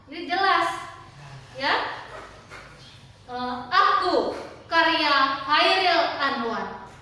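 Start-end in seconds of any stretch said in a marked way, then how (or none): 3.7-6.9 "aku, karya Hairil Anwar" slowly and distinctly; clear enunciation. Shown as a demonstration. Teacher modelling pelafalan of a poem title, "aku, karya Hairil Anwar" slow and clear. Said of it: "Jadi, pelafalannya jelas".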